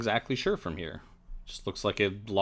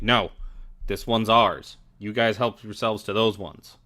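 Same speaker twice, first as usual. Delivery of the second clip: angry dog; 5 dB louder, slower than usual. Acted. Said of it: "kind of angrily say".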